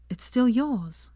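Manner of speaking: pointedly. Acted. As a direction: make her point firmly. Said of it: "said Hermione pointedly".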